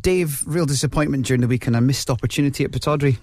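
upbeat, lifted sports-radio opening; radio presenter intro. Acted. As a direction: open the show like a radio host. Host resumes after jingle.

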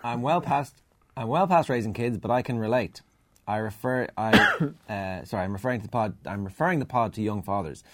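lifted, presentational reading voice; email read-aloud. Acted. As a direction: read a listener's letter out to the room. Reads out listener email.

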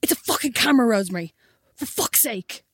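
mildly heated mock outburst; retold loud snap. Retelling her boyfriend swearing at her in the airport, exasperated. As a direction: act out an exasperated telling-off without real volume. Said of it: "really loud".

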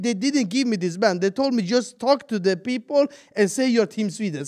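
pleading pitch. Retold or imitated. Long retold plea.

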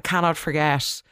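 ordinary talk

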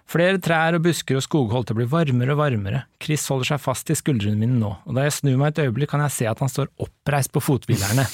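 measured read-aloud narration; story reading. Acted. Host reads the book's ending to co-host, story reading. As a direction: read the novel out clearly and evenly.

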